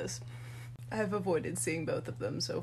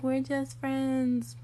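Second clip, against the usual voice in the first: drawn-out, higher mom imitation; mock coy denial; 5 semitones higher, much slower than usual. Daughter mimics mom denying a boyfriend, drawn-out coy denial. Mom's denial retold teasingly.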